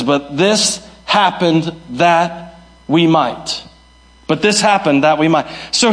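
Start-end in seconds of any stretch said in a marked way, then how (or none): 0.0-3.6 slow, weighty, every word set apart; slow emphatic reading. Shown as a demonstration. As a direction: lay the verse down slowly and deliberately. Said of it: "And Paul switches and he says".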